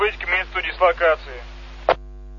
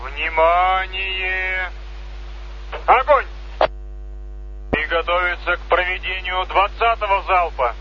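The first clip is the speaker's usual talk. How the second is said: military commands; slower than usual. Real, not acted. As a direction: call out firing commands. Salute firing commands over loudspeaker.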